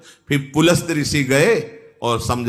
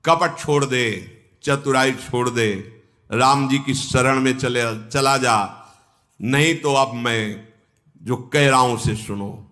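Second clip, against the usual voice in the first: stern counsel. Acted. Angad sternly warns Ravan. (नीचे स्वर में गंभीर चेतावनी)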